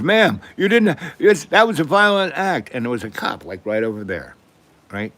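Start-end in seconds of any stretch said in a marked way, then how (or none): 0.0-2.7 high, louder whiny protest voice; mocking whiny kid. A surplus-store kid complaining to grandma, high mocking whine. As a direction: mimic a kid crying foul. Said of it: "she goes, she goes".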